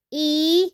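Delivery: "E" as a long pure ee; Spanish letter name. Shown as a demonstration. Teacher naming letter I in Spanish, long "E" as ee. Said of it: "in Spanish".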